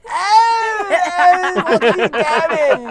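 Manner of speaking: loud, high hammed-up English accent. Comic asked for an English accent, hammed-up English accent. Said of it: "can you do an English accent?".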